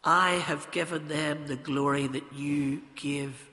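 measured prayer with long pauses; earnest, deliberate address to God; public prayer. Real, not acted. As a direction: pray aloud for the congregation, phrase by phrase. Leads the congregation in prayer.

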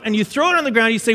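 usual speaking voice

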